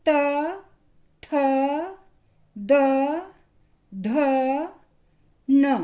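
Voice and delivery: त थ द ध न said one by one, tongue behind the teeth; dental consonants demo. Shown as a demonstration. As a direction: say त, थ, द, ध, न slowly for pupils to repeat. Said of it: "बोलकर देखिए".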